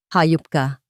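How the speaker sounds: a loud, spat-out curse; furious insult. A narrator's reading. Isabela confronting her brother, loud furious curse. Throws letter, insults Mateo.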